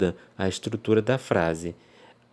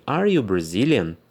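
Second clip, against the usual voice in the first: slow, clear question, a bit louder; slow demo question, a little louder; asking a question; 4 dB louder than usual. Shown as a demonstration. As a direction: ask it like a real question to a student. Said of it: "e fala assim".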